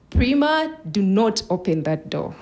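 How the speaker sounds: retold shout. Mom warns daughter off the door, lightly shouted. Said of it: "my mom shouted".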